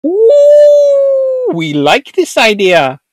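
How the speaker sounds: long high "ooh", then slow relish; acted delighted Dutch. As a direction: coo loudly over a tempting idea. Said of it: "And Dutch go".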